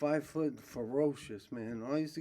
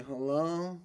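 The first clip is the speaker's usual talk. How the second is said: mock slow talk; 5 semitones higher, slower than usual. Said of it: "the volume goes up, they talk slow".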